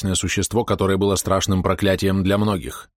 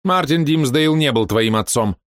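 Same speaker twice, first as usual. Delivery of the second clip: high, slow, louder revelation; cold villainess; 7 semitones higher, 4 dB louder, slower than usual. Acted. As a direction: unveil it coldly. Villainess reveals secret. (злодейка холодно раскрывает тайну)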